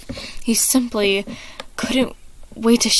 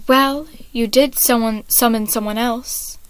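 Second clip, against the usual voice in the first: low and threatening; 2 semitones higher than usual. Acted. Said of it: "Logan's voice was low and threatening".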